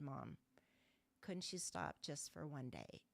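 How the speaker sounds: soft, slow plea, retold; without anger. Son to his drinking mother from the front seat, soft and unresentful. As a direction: quote the son softly, no hate or resentment. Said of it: "not with, like, hate or anger".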